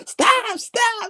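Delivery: high, laughing stop. Real, not acted. Cracking himself up after singing, high and laughing. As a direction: beg yourself to stop through laughter.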